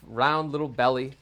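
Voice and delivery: usual speaking voice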